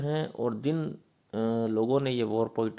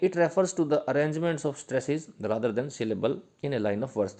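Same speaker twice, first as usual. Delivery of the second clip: slow dictation; 3 semitones higher, much slower than usual. Shown as a demonstration. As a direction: dictate it so students can write it down. Dictating notes slowly.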